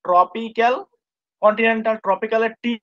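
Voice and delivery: ট্রপিক্যাল and কন্টিনেন্টাল said slowly as separate words with a pause between; slow dictation. Shown as a demonstration. Teacher spelling the name out for the student, slow and spaced. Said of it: "কি হবে এখানে ট্রপিক্যাল কন্টিনেন্টাল".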